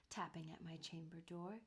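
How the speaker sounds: low-key, softened mutter. A narrator's reading. Narrator reassuring himself about the tapping, softly muttered. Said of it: "I muttered".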